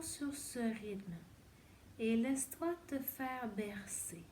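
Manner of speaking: slow, unhurried yoga nidra voice with long pauses between phrases; guided meditation. Acted. Yoga teacher guiding a lying-down student through breath and body, slow guided meditation. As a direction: lull the listener into rest, phrase by phrase.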